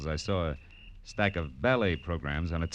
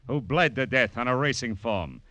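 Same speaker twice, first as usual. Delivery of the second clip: louder, higher hard-sell teaser; punchy teaser; 8 semitones higher, 5 dB louder than usual. Acted. Detective teasing next week's case, punchy and louder. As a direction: hook the audience for next week. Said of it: "when Philip Marlowe says".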